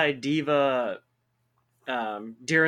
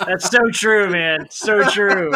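loud, high, through laughter; real laughing exclamation; amused agreement; 4 semitones higher, 8 dB louder, slower than usual. Real, not acted. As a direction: agree loudly while cracking up. Agreeing straight after a laughing fit.

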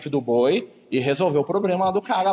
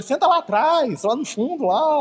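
dismissive brush-off; 10 semitones higher, slower than usual. Retold or imitated. A churchgoer dismissing a poor man, high and contemptuous. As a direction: shoo the poor man to the back. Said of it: "aí você fala assim com ele".

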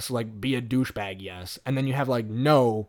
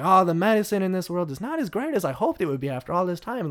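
higher voice, light mock French accent; Curie, French accent; 5 semitones higher, faster than usual. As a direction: lament in a lightly put-on French voice. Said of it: "this incredibly racist French accent".

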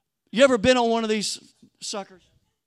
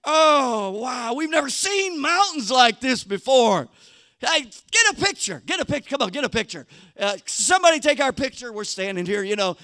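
gushing tourist; 2 semitones higher than usual. Retold or imitated. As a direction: play a wide-eyed sightseer begging for a photo. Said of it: "You can just hear 'em".

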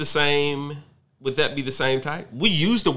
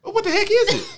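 laughing; faster than usual. Real, not acted. Laughing banter over snooping.

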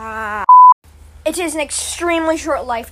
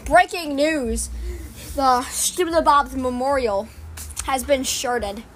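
news anchor. Acted. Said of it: "three, two, one, action".

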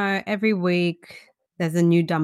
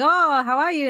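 higher, louder chirpy hello; effusive greeting; 7 semitones higher, 5 dB louder than usual. Retold or imitated. Chemist to a regular customer, effusive greeting. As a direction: greet a favourite regular with lifted pitch.

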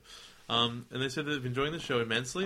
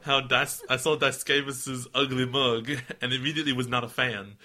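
put-on drifting Midwestern Milwaukee accent; a light Wisconsin twang; 4 dB louder than usual. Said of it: "You went to Milwaukee just then".

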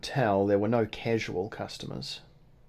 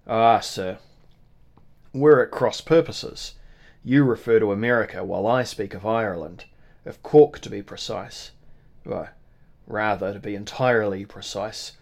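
emphatic correction; 5 dB louder than usual. Acted. Innkeeper corrects guest.

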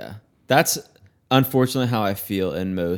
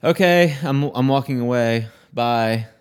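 mock exit; 3 dB louder than usual. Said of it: "I'm like".

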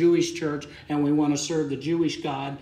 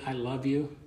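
softer, gently sincere; soft and genuine; 5 dB quieter than usual. Acted. Paul telling the church he loves them, softly. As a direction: say it tenderly, a little softened. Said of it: "so I could tell you softly and genuinely".

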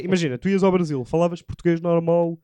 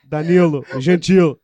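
louder, put-on Brazilian pronunciation; mock Brazilian accent; 3 semitones lower, 6 dB louder, slower than usual. Greeting host Danilo Gentili as guest, mock Brazilian accent. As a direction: exaggerate the name in fake Brazilian. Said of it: "mudava logo a voz".

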